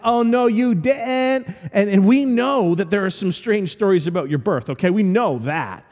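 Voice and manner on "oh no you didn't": slow, higher scoffing retort; sassy denial. Retold or imitated. Crowd scoffing at Jesus, slow high sass. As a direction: throw it back with attitude. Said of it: "And they said".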